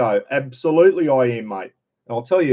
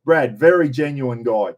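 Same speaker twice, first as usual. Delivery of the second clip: sincere; 3 dB louder than usual. Real, not acted. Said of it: "I mean, I'm being serious now".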